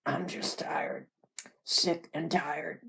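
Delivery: slow, husky whispery invalid voice; tearful, weary invalid. Acted. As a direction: drag it out, worn down and tearful. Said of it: "There were tears in his eyes".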